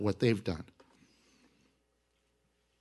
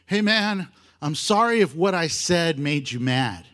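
mock apology. Shown as a demonstration. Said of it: "Here's a high school apology".

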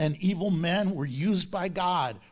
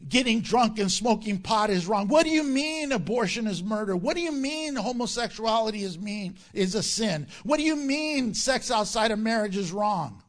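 raised, louder indignant sinner act; mock angry protest; 3 semitones higher, 4 dB louder than usual. Rebuked people push back at the pastor, mock angry. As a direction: protest in hammed-up outrage. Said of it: "But they get angry".

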